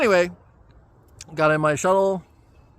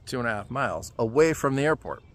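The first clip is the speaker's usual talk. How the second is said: quieter, dropped-pitch echo of the distance; disbelieving repeat; 4 semitones lower, 5 dB quieter than usual. Real, not acted. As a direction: mutter it back as if you can't believe it.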